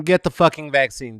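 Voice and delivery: ordinary talk, nothing marked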